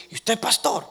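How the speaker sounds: surprised question. Retold or imitated. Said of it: "me mira y me dice".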